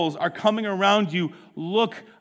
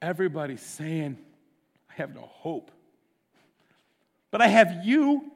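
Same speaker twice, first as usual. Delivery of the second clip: hushed prayer. Acted. David crying to the Lord, hushed broken whisper. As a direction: pray it like a broken man alone. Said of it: "He's like".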